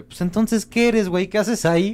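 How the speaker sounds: high-pitched incredulous questioning; mock challenge. Guy mock-confronts a woman's Tinder profile, high-pitched and incredulous.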